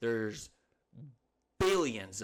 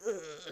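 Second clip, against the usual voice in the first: squirming, higher-pitched mock "ugh"; disgusted groan; 4 semitones higher than usual. Man shaking a chipmunk out of a towel, disgusted groan. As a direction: groan in exaggerated squeamishness.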